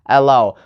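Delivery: hello with a hard puffed H, set apart from the rest; wrong stress on H. Shown as a demonstration. Teacher showing what learners cannot say, stress on the H of hello. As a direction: overdo the H in hello. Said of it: "You cannot say".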